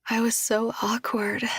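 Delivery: shy unvoiced whisper. Julia whispers shyly to Josh.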